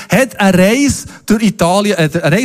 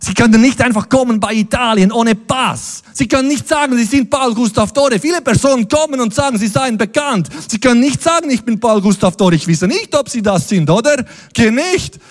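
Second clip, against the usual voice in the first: lightly voiced border guard; 5 semitones higher than usual. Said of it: "Der Alessandro sagt".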